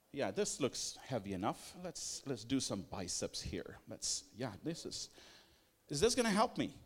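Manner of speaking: soft, muttered voice of a casual lifter musing to himself; imitating a gym-goer's thoughts. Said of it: "training has been like".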